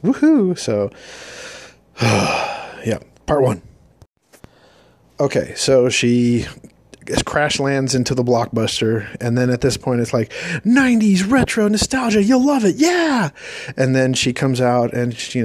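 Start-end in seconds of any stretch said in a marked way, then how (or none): 0.0-0.6 mock cheer. 10.6-13.3 mock commercial hype; cheesy hype voice. Mock ad voice for nostalgia.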